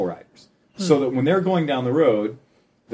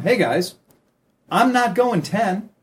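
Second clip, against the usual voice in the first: higher-pitched, measured message to drivers; assertive appeal; 6 semitones higher than usual. Acted. Cyclist messaging car drivers, assertive appeal. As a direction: make the point to drivers, pitched up.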